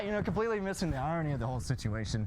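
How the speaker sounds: normal talking voice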